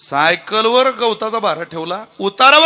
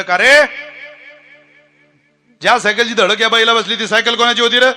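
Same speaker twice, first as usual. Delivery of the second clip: stern question; 5 semitones higher, 4 dB louder than usual. Retold or imitated. Judge questioning the cyclist.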